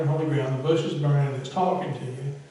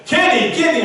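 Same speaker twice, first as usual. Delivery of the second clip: calling out; 10 semitones higher, 9 dB louder than usual. Pretend. God calling the preacher by name.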